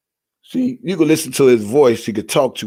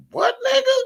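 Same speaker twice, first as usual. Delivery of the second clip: incredulous retort; 4 semitones higher than usual. Retold or imitated. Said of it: "I'm like".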